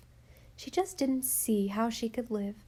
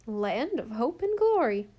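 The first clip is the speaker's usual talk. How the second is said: a blank, stunned exclamation; blankly; 4 dB louder than usual. Acted. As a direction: say it dazed, at a loss. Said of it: "said Susan blankly".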